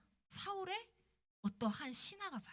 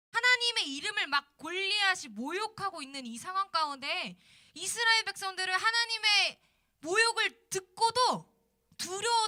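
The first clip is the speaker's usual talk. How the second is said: raised, louder preacher's voice; impassioned preaching; 6 semitones higher, 8 dB louder than usual. Real, not acted. Preacher to students about Israel hiding in fear, impassioned preaching. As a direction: build to a high, forceful pulpit delivery.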